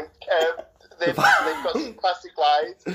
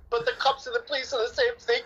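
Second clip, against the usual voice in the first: higher, slightly far-off voice playing the exasperated girlfriend; acting out Jenna explaining cops and police; mock dim Jenna; 8 semitones higher, 4 dB quieter than usual. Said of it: "And she's like".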